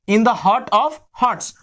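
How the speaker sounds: slow, careful corrected phrase "in the heart of hearts"; slow correction. Shown as a demonstration. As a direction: fix the slip slowly. (धीरे से सुधारा गया "in the heart of hearts")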